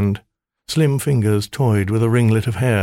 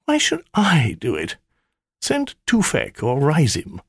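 higher, sulky temptress voice; sulky maiden; 6 semitones higher than usual. Acted. Spirit complaining to her master, sulky. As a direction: pout at the demand.

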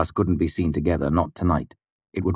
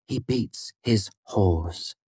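higher, slow, deliberate cut-in; abrupt interruption; 4 semitones higher, 4 dB quieter, much slower than usual. A narrator's reading. Devi interrupts Willem about Ambrose, abrupt and deliberate. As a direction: cut him off, weighting each word. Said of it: "interrupting him abruptly".

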